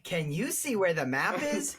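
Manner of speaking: put-on high, bright question to the kids; mock kids' show host. Joining the Dora joke, high kid-show question. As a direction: ask like a cartoon host.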